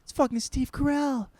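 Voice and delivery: high astonished double take; surprised recognition. Retold or imitated. Narrator finally spotting the actor, high and stunned. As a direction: realize who it is with a jolt. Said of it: "I was like".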